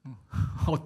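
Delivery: ordinary delivery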